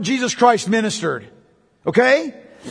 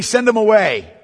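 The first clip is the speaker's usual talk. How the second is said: firm, plain order to dismiss them; matter-of-fact imperative, no question in it; blunt command. Acted. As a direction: state it as a direct demand. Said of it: "They don't say it like that. They say".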